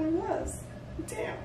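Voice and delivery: high laughing self-mockery; giggly high-pitched admission. Real, not acted. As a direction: laugh at your own age. Laughing at herself.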